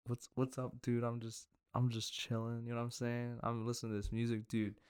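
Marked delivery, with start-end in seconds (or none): 0.1-2.6 softly voiced chill guy; normal straight dude. Doing the bit of talking normal, as a chill dude. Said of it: "try to talk normal". 3.4-4.8 lightly voiced music-loving dude; a hint of a chill bro; normal straight dude. Acting out the normal-person bit as a chill dude. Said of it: "try to be like a normal person".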